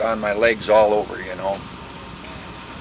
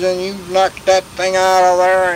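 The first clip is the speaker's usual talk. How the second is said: higher-pitched retold command; angry officer; 5 semitones higher than usual. Officer orders tank at the guns, retold anger. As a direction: imitate an officer giving a cross order. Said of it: "He was really mad".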